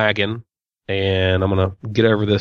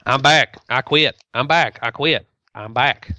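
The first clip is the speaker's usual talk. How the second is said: lightly put-on politician voice, short separate phrases; Ross Perot impression. Co-host playing a wavering politician for laughs, light impression. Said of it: "That's my Ross Perot impression".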